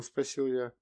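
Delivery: usual speaking voice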